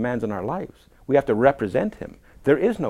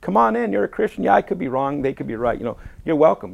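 mock welcoming party host; 5 semitones higher, 4 dB louder than usual. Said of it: "then you're welcome at parties".

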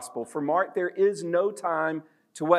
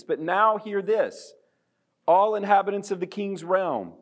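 town crier; 4 semitones higher than usual. Acted. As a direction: call it out like a royal herald. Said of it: "the way an old-fashioned town crier would do".

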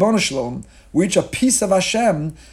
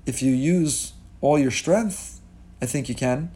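calm father; 3 dB quieter, slower than usual. Acted. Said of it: "And the father says".

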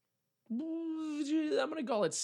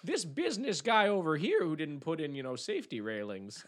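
put-on Willy Wonka accent; 3 semitones higher than usual. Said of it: "why he has that accent in my head".

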